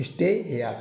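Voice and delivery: स्टे हेयर split into "stay" plus "yar"; teacher building स्टे हेयर piece by piece; sounded out. Shown as a demonstration. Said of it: "last में आर आ रहा है".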